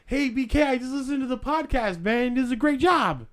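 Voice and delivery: high, eager fan voice; gushing fan. Pretend. Playing a fan stopping the host on the street, high eager gush. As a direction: play an overexcited stranger. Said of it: "We do a little role play".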